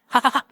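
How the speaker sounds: high, acted ha-ha-ha; mock triumphant laugh, narrator-style; gloating laugh. A narrator's reading. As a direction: read out a gloating villain's laugh at high pitch. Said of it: "林南阳得意地大笑起来".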